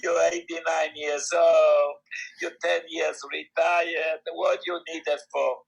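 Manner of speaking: lightly imitating a Jewish shopkeeper's accent; old man's mild Jewish accent, slow. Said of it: "with a Jewish accent".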